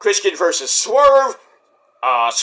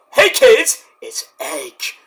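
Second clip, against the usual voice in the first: catchphrase call-out; 3 semitones higher, much slower than usual. Retold or imitated. Fan quoting Edge's entrance line, mock call-out. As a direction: announce it, then let it fall away.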